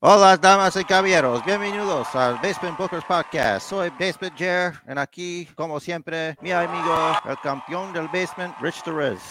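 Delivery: high, loud Spanish ring announcer; lucha libre announcer. Acted. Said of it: "Sorry, I'm still in Mexico".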